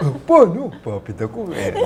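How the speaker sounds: high puppet voice, easing off at the end; cartoonish puppet reply; second puppet. Shown as a demonstration. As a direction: answer as a comic ad puppet. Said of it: "the two puppets".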